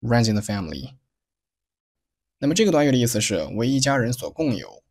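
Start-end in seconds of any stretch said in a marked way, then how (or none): 0.0-0.9 "runs in the family" with "in the" reduced; weak forms, linked. Shown as a demonstration. Teacher models "runs in the family" with weak, linked small words. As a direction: link "runs in", pass lightly over "the". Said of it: "In 和the是弱读".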